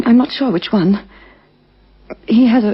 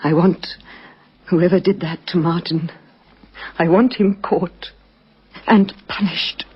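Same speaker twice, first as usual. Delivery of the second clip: grim resolve; 3 semitones lower than usual. Acted. Widow demands justice for husband.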